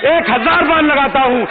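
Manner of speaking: forceful, declaimed assembly speech; impassioned political oratory. Real, not acted. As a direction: press each challenge home to the house. (जोशीला राजनीतिक भाषण)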